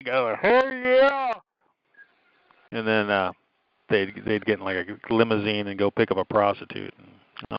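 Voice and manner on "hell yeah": very high, thrilled hell yeah; mock eager yell. Bum accepting the offer, in a very high eager squeal.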